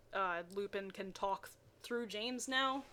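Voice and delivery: ordinary delivery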